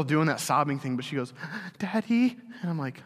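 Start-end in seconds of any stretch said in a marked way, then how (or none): 1.8-2.4 put-on high little child's voice; toddler calling daddy. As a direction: call out like a sleepy two-year-old. Sobbing toddler calls for dad.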